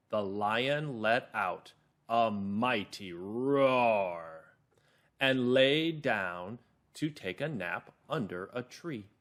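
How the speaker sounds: very slow storytelling, drawing out the roar; calm, clear narrator. Shown as a demonstration. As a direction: read slowly to children, word by word. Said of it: "my narrator voice is calm and clear".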